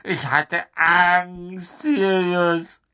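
whispered, slow confession of fear; frightened whisper. Acted. Pettigrew whispers his fear to Sirius. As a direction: breathe it out in terror.

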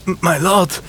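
high, breathless stammer; gasping. Acted. Half-drowned squire gasping to his lord, breathless. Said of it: "keuchte er".

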